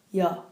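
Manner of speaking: Ya said with an open a; pron ya. Shown as a demonstration. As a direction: clear Korean ya vowel. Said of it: "Compare yo and ya".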